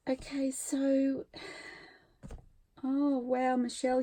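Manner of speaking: hushed whisper. Real, not acted. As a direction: breathe it, barely voiced. Opening a surprise parcel.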